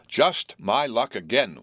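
slow self-pitying whimper. Acted. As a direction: whine it slowly, feeling sorry. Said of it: "whimpered Will".

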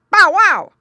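high, loud answering bark; dog bark. A narrator's reading. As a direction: bark back eagerly at your master. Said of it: "was the barking answer".

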